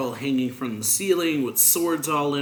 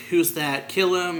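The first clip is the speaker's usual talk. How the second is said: loud, higher retold guard yell; 6 semitones higher, 6 dB louder than usual. Guards spot the intruder and yell for his death, loud and high. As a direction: bark it out like a guard spotting an intruder. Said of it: "more guards yelling".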